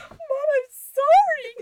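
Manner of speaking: put-on high, slow little-boy apology; squeaky child voice, drawn out; imitating her son. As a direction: whine it like a sorry kid. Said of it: "Rowan literally was like".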